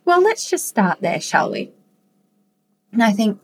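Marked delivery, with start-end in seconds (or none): 0.0-1.7 higher gentle doctor coaxing the patient. Retold or imitated. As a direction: coax the patient along kindly. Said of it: "And she goes".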